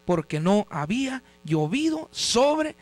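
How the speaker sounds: slow, phrase-by-phrase Bible reading; scripture reading. Real, not acted. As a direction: read the verse slowly with deliberate pauses. Reads scripture aloud. (lectura bíblica pausada)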